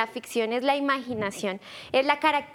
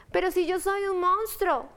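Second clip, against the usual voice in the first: friendly monster voice; 5 semitones higher than usual. Acted. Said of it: "dijo el monstruo".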